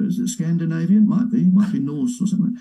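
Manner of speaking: high, mock-innocent wondering; sarcastic. Real, not acted. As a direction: play dumb to make the point. Sarcastic rhetorical questions.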